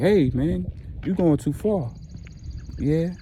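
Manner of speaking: high, loud warning shout; angry shout. Retold or imitated. Husband yelling at his lover in front of the wife, high angry shout. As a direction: push back hard, voice up and loud. Phil snaps back during the fight.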